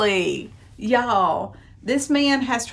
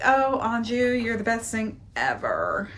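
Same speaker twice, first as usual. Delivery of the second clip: mock breathy heroine; 2 semitones higher than usual. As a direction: sigh it out like a lovestruck bride. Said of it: "She's all like".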